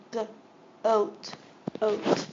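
segment by segment; sounding out goat. Shown as a demonstration. Teacher sounding out a word for students, segmented. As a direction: split goat into G and oat. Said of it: "This makes a long O sound".

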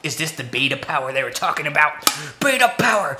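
laughing. Real, not acted. Laughing at own joke.

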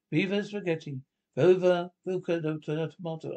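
lightly put-on Italian accent. Cook adding the last ingredient, Italian accent. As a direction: exclaim it in a mock Italian accent. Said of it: "Italian accent".

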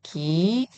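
기 with a soft, lax g, rising; plain lax 기. Shown as a demonstration. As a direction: say 기 with a relaxed onset. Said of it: "이렇게 읽으시고요". (예사소리 ㄱ으로 부드럽게 기)

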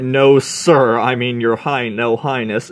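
a startled captain fumbling for the right title; flustered loud reply. Retold or imitated. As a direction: blurt it out nervously, correcting yourself. Flustered captain answers queen.

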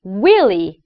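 윌리 with a clean, clear L. Shown as a demonstration. Coach models the name for students, clean L in 윌리. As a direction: model 윌리 slowly for repeating, crisp L in the middle. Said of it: "L이에요".

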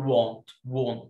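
"want" with a rounded British o, like wont. Shown as a demonstration. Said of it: "لو بريتش بقول".

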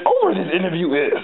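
a hint of Yoda's backwards croak; lightly voiced Yoda. Friend mimics stoned Yoda for laughs, lightly voiced. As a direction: mimic Yoda casually, barely changing the voice. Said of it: "that's exactly how he talks".

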